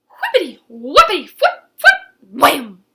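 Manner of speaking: falling sound effect. A narrator's reading. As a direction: bounce the words down like a fall. Verdi falls through trees.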